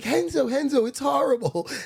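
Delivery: very high, slow, feminine-sounding voice. Telling a story about Quentin, imitating Quentin's feminine voice. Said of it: "he's got like a kind of like a feminine voice".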